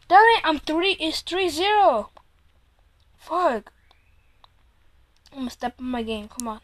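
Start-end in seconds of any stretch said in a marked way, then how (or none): 0.1-3.7 frustrated. Real, not acted. Losing three nil.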